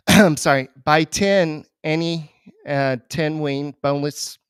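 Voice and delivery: throat catching while reading; choking up. Real, not acted. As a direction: talk through a tickling throat. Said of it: "Sorry, I'm choking up here".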